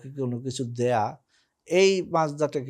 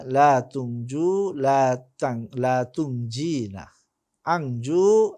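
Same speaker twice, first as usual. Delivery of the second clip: careful drill with lengthened vowels; lilting, measured conjugation list; model recitation. Shown as a demonstration. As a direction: chant out each verb form for learners. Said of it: "উচ্চারণটাকে খুব ভালোভাবে লক্ষ্য করতে হবে".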